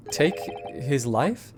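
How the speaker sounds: slow, stunned echo with a rise on "Take his life?"; incredulous echo. Acted. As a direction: repeat "Take his life?" slowly in disbelief.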